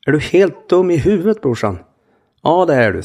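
put-on high, loud furious kid's yell; angry twelve-year-old. Little brother screaming at his big brother, high angry yell. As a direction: shout it like a livid little brother. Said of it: "På det sättet en arg tolvåring gör".

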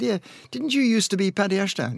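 high, stranger's voice, mildly imitated; little man from the station. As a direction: play a passer-by recognizing a has-been. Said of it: "A little man came up to me and said".

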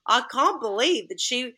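hammed-up horrified manager voice; flustered manager. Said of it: "and he's like".

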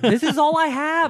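laughing. Acted. Alien voice tryout, laughing.

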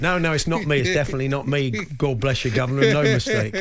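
light mock Cockney punter at the bookies; a jokey put-on Cockney, not overdone; faux Cockney accent. Weatherman in disguise placing a bet, mock Cockney accent. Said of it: "does a kind of faux Cockney accent".

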